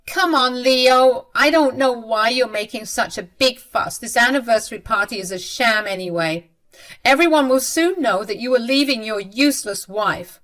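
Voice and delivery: scornful mother. Acted. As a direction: brush off his fuss with contempt. Mother-in-law dismisses son.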